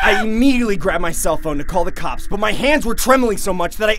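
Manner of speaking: loud, high-pitched, frightened telling; urgent, terrified storyteller; panicked narration. A narrator's reading. Narrator panics as clown attacks.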